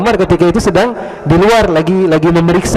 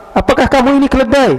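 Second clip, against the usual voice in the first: high, indignant yelled question; angry man shouting at the stranger who stepped on him; 9 semitones higher, faster than usual. Retold or imitated. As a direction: demand it as an insult.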